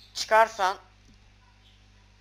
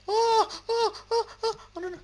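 laughing yelp; 7 dB louder than usual. Real, not acted. Panicked laughing yelp at mob.

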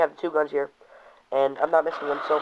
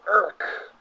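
comic grunt; 5 semitones higher than usual. Shown as a demonstration. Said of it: "You go".

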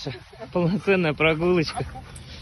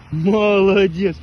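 talking to a dog; 3 semitones higher, 6 dB louder, much slower than usual. Real, not acted. Loud slow praise.

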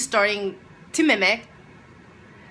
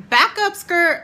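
sassy retort; 9 semitones higher, 6 dB louder than usual. Retold or imitated. Retorting to the bullying classmate.

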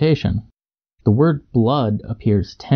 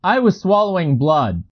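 high-pitched character reply; in-character answer, pitched up; acted excuse; 8 semitones higher than usual. A narrator's reading. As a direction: explain yourself to the questioner, voice raised in pitch. Narrator excuses mistake, acted.

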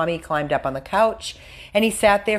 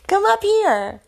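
very high, louder pet call; calling the dog up; 5 dB louder than usual. Real, not acted. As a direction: coax a dog up in a high squeal. Calling the dog up beside her.

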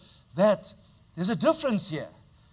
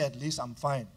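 gracious reply; 4 semitones lower than usual. Shown as a demonstration. Pastor showing a church member how to answer kindly on WhatsApp, gently. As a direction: answer kindly, taking your time. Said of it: "If they ask, let me say".

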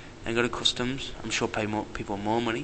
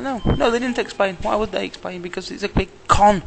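high, louder indignant retort; retold indignation; 9 semitones higher, 4 dB louder than usual. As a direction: fire back, outraged, up high. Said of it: "I was like".

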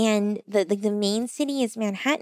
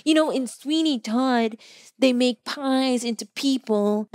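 slow know-it-all; slower than usual. Retold or imitated. Strangers lecture her on Sweeney Todd.

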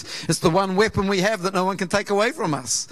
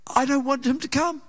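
fed-up grumble; 6 semitones higher than usual. Retold or imitated. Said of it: "the next Sunday I go".

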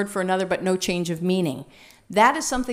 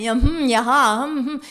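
eager listening noises; 2 semitones higher, 6 dB louder than usual. Shown as a demonstration. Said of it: "we're nodding like crazy and saying".

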